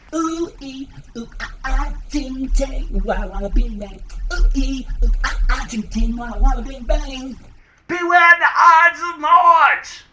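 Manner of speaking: loud, high nonsense incantation building to a shout; wailing soothsayer. Acted. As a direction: chant wildly, then bellow the warning. Voicing the soothsayer's chant and warning.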